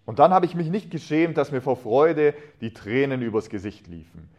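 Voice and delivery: measured, expressive reading of a wartime memory; story narration. A narrator's reading. Man retelling wartime Christmas to listeners, story narration.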